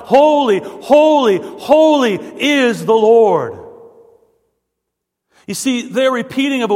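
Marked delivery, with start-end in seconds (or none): 0.1-3.6 loud, high proclamation of the seraphim; crying out. Retold or imitated. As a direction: cry each word out, drawn out and raised. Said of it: "They repeated the cry. They cried out".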